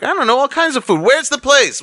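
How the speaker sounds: high, impatient retold comeback; impatient insistence. Customer refusing a change of subject, impatient insistence. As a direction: brush the question aside and press, pitched high. Brushes off question, presses demand.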